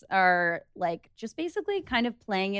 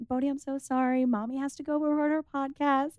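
sweet dog-mom voice; 4 semitones higher than usual. Retold or imitated. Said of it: "the switch was amazing".

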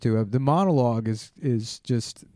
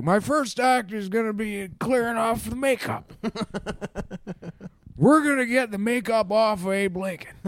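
put-on high, hammy old politician voice; mock presidential voice; Biden impression; 7 semitones higher than usual. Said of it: "He's like".

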